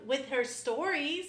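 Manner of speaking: STORIES drawn out slowly; slow, playful emphasis on STORIES; capitalized STORIES. Retold or imitated. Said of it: "She capitalized stories".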